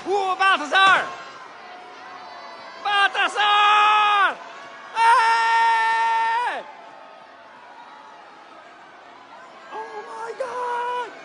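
high, thrilled shouting at the parade; excited. Real, not acted. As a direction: cheer the kings, very high. Kings pass by, crowd cheering.

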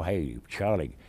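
lightly voiced gangster; quick patter in a gangster dialect. Shown as a demonstration. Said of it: "or gangster".

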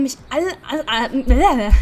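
breaking into giggles on repeated alle; can't get past alle for laughing; real laughter cracking up the read. Real, not acted. Laughing fit while reading line.

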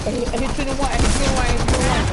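loud callout; hyped gamer bro. Real, not acted. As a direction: call it out to the team. Calling out enemy health.

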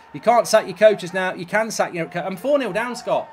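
loud, exasperated complaint; fuming about being four nil down; angry outburst. Real, not acted. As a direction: vent at the chat, loud. Furious at losing four nil.

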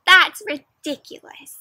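put-on teacher scolding late boys, stern. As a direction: scold them firmly. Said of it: "said Miss Gernsblot".

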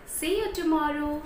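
put-on bright, lively teacher voice for little children; animated story-time teacher; storytelling to kids. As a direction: tell it like a kindergarten teacher.

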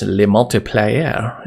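slow mock-French pronunciation; horrible French accent. Coder playing on a word that sounds French, horrible French accent. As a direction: draw it out with a badly faked French accent. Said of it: "Forgive my horrible French accent".

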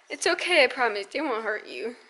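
softening, reassuring murmur. Real, not acted. Reassuring baby.

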